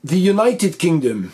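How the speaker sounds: careful model reading of "The United Kingdom"; English pronunciation model. Shown as a demonstration. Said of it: "l'objet de la vidéo".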